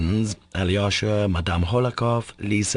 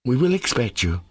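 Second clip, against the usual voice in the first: "We will expect you" pitched up, weighted and final; emphatic; 4 semitones higher than usual. A narrator's reading. Alyosha takes leave of Katya with "We will expect you", emphatically. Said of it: "he concluded emphatically".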